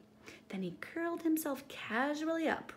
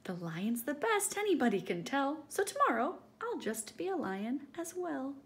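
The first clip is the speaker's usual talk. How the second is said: smiling Edward; 5 semitones higher than usual. Acted. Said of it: "he smiled as he said".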